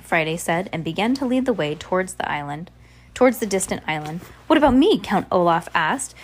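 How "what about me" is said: high, loud squeak of a question; a villain's voice cracking up high; squeaky voice. Acted. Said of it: "His voice was a little squeaky".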